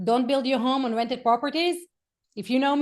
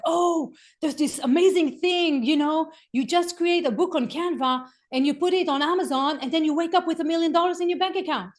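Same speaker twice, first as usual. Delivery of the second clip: high, loud, starry-eyed hype, a touch of mock; gushing sister-in-law; 5 semitones higher, 4 dB louder than usual. Coach mimicking her sister-in-law in Israel raving about drop shipping, mock gushing. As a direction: mimic a relative sold on a get-rich scheme. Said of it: "my sister-in-law goes like".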